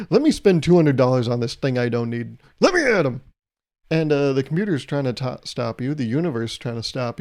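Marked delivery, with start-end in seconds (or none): 0.1-3.2 mock angry demand. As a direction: demand it like a thwarted shopper. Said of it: "and still you're angry".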